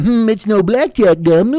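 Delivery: slow, dreamy mock podcaster; dopey podcaster. Amateur podcaster musing into a mic, slow and dopey. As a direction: drag it out like a clueless host.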